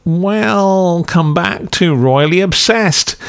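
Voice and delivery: slow drawn-out radio DJ welcome; hint of a Good Morning Vietnam host; Robin Williams. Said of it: "modelled on Robin Williams in Good Morning Vietnam".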